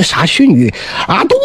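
a hint of an irate emperor scolding; mild mock fury of a tyrant; lightly voiced angry king. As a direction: scold him like a tyrant with little change of voice. King rages at Xibo Hou.

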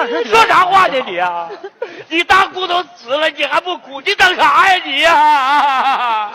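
tearful scolding. Acted. Uncle ordering his child to mourn the aunt, tearful scolding. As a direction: scold through mock-grief, stretching the last words.

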